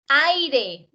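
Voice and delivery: "aire" with a strong, drawn-out first vowel; stress demonstration. Shown as a demonstration. Teacher asking where the force falls in the word, stressed demo. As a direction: lean hard on the A of "aire". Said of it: "¿Dónde está la mayor fuerza?".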